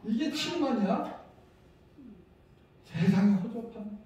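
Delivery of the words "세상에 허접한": normal talking voice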